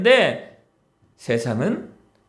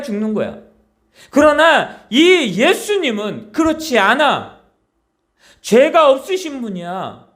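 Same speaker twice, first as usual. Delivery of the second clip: higher and louder, an indignant robber scolding his partner; rebuking robber; 6 semitones higher, 3 dB louder than usual. Acted. A robber on the cross rebukes the other robber, indignant and raised. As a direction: tell him off, you both deserve this. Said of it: "그 한 강도가 또 이야기합니다".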